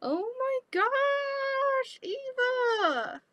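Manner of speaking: high, slow, drawn-out squeal; relieved squeal. Real, not acted. Squealing at friend Eva for the scare. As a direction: stretch it out in huge relief.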